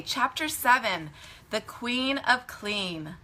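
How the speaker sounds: measured chapter title, slowing on the name; storybook title reading. A narrator's reading. Storyteller begins reading chapter seven to children, measured and clear. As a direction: read the title out simply and slowly.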